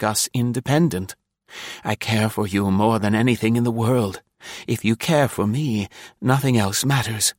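lightly voiced, earnest lover; pleading suitor. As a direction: plead gently for her forgiveness.

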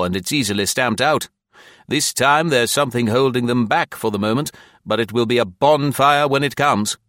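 lightly voiced official, pitched a little up and emphatic; commissioner in earnest. Commissioner warning club officers of unrest, lightly voiced and emphatic.

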